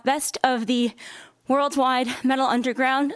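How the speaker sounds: out of breath after running uphill; slightly winded, still catching breath. Real, not acted. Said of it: "Sorry, I'm out of breath".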